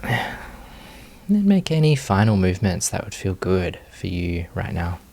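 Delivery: calm, unhurried meditation guiding with long pauses; guided meditation. Real, not acted. Teacher leading students into meditation posture, unhurried guided meditation. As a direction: ease them gently through each movement, leaving space. Leads the settling movement practice.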